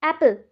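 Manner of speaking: एप्पल with a prominent opening A; stress on the A. Shown as a demonstration. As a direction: punch the first vowel of एप्पल, fade the last syllable. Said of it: "कौन सा ज़्यादा sound कर रहा है". (एप्पल में शुरू के 'ए' पर ज़ोर, अंत हल्का)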